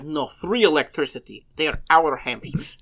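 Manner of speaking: lightly put-on Russian accent; deadpan Eastern European accent. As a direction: patiently explain in a mock-Russian voice. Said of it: "when you do that accent".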